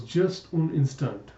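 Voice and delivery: slow, amateur French; atrocious French. Acted. Natasha asking Jacob to wait, in bad French. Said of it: "I apologize for my atrocious French".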